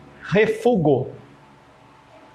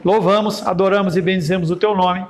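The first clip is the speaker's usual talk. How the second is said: oração pastoral solene e pausada. Acted. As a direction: ore pela congregação, com reverência. Leads a closing prayer. (oração fervorosa de culto)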